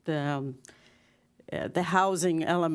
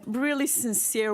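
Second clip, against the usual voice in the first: laughing through the words, higher and louder; 8 semitones higher, 3 dB louder than usual. Real, not acted. Speaker to the mayor after a joke, laughing. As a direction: laughs at her own joke mid-sentence. Joke about almost perfect.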